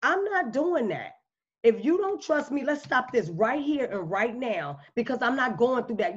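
drawing a calm, firm line; confident stand. Shown as a demonstration. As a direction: say it like you mean it, no backing down. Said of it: "confidence is saying".

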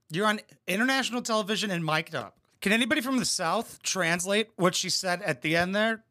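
ordinary talk

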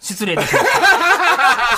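slow, drawn-out formal apology; exaggerated polite apology. Host apologizing for his anger, a slow hammed-up polite apology. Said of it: "夕方らしくない怒り方を".

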